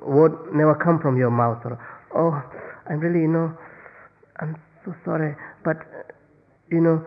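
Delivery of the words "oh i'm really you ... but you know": feigned regret. Pretend. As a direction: plead an excuse with put-on regret. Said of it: "and you pretend".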